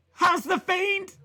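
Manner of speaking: teasing provocation. Pretend. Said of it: "I'd be like".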